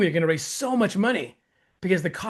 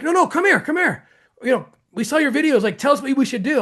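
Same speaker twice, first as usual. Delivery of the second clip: eager urging; 5 semitones higher than usual. Retold or imitated. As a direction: wave him in, come here, come here. Congressmen urgently calling him over.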